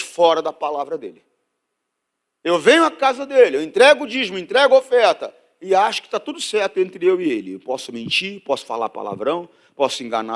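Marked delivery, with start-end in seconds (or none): 2.4-7.5 raised, higher-pitched preacher's voice; preaching. Acted. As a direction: list it off with loud preaching energy. (pregação em voz elevada)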